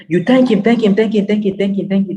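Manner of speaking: high, loud, repeated thank him; fervent praise that fades toward the end; lavish thanks. Acted. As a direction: pour out thanks with rising excitement.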